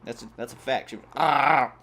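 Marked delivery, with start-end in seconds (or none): 1.2-1.7 growly "ah" of a biter; mock attack sound; imitated chomping noise. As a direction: mimic a chomp with an open-mouthed noise. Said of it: "she even did the noise".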